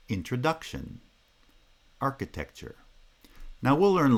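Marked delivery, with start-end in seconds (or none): 0.1-1.0 Introduction with main stress on DUC; stress pattern demo. Shown as a demonstration. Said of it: "Primary stress is on the third syllable". 2.0-2.8 Architecture with main stress on AR; stress pattern demo. Shown as a demonstration. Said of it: "primary stress is on the first syllable".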